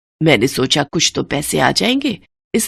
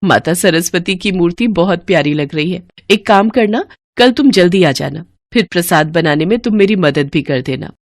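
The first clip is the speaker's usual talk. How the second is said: mistress's voice. Acted. Mistress tells Gomti how to clean the temple, brisk. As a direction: instruct the servant kindly but firmly.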